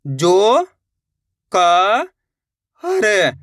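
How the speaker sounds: "जो ... क ... हर", each stretched, pauses between; letter by letter. Shown as a demonstration. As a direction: sound out "जो क हर" one part at a time. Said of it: "तो मिलके बन जाएगा जोकर". ("जो ... क ... हर" एक-एक करके, खींचकर)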